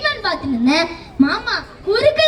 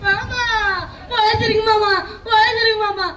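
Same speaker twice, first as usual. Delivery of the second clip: tearful cry. Acted. Relief at uncle surviving.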